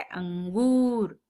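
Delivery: अंगूर said very slowly with a clear nasal अं; clear nasal sound. Shown as a demonstration. Teacher slowly models अंगूर for pupils. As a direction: stretch अंगूर, letting the अं ring through the nose. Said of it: "अंगूर किस प्रकार पढ़ा जाता है?".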